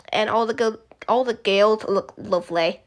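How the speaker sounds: put-on amateur Manchester-sounding accent; shaky go at a British accent; bad British accent. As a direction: attempt a northern English accent, badly. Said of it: "The worst British accent".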